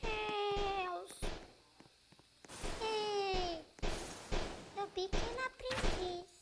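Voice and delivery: high squeaky voice after a shrink potion; tiny squeaky voice; chipmunk voice. Real, not acted. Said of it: "ficar com a voz fininha".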